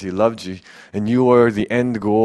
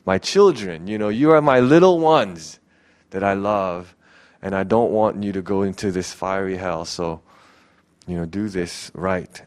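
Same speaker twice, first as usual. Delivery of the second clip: gentle pleading; 2 semitones lower than usual. Retold or imitated. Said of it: "pleading with us".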